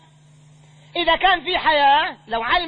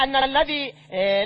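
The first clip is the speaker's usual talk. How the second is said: normal talking voice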